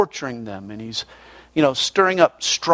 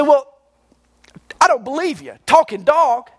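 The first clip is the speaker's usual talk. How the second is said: doubting maitre d'; 10 semitones higher than usual. Acted.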